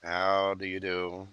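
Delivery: slow, soft, silky menace; drawn-out creepy courtesy; Hannibal Lecter. Acted. To Evelyn, the client, as a slow, softly menacing Hannibal. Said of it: "I feel like that".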